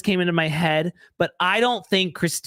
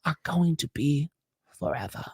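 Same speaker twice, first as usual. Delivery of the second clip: mock dreamy romance. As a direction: ham up a breathless love story, lightly. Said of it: "I just wanna perform it for you".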